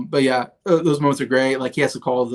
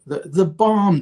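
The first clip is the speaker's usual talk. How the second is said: much higher, apologetic mock president voice; sheepish president; 7 semitones higher, 4 dB louder, slower than usual. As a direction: squeak up to the last word like a guilty child. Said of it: "And he's going through".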